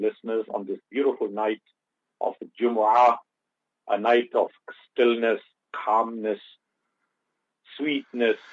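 faint, distant voice off the mic; speaking well away from the microphone; far from mic. Real, not acted. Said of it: "you're sounding a bit far away".

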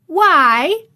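high, loud astonished echo; echoed in surprise. A narrator's reading. Maid Martha echoes Mary's question, astonished and high. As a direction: throw the word back, amazed. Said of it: "echoed Martha".

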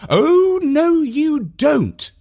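high, loud, slow Oh no you don't; mock-fierce shout; shouting mum. A narrator's reading. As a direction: stop her grabbing it with a shout. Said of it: "shouted Mum".

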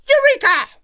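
high, loud triumphant shout; loud cry. A narrator's reading. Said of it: "a loud cry of".

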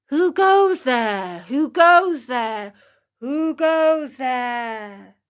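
echo. Acted. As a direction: let it die away like a distant echo. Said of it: "the far-away hills echoed back".

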